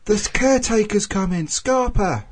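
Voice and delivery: put-on high, loud Welsh-accented warning shout. Kid warns that the caretaker is coming, shouted Welsh accent. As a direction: imitate an urgent Welsh lookout yelling. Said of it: "sort of, in Welsh".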